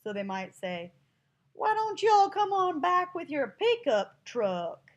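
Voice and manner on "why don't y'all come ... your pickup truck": loud, high, slow Southern Texan drawl; hollered mock-Texan twang; Texan accent. Shown as a demonstration. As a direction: exaggerate a lowbrow Texan accent. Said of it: "people use a Texan accent".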